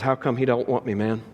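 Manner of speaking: broken down. Retold or imitated. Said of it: "then he breaks down and says".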